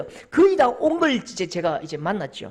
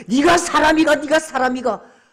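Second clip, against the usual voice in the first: loud, raised self-berating; acted outburst of self-loathing; wailing self-reproach; 6 semitones higher, 10 dB louder than usual. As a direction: shout at yourself in anguish. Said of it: "머리를 쥐어박고 통곡하던".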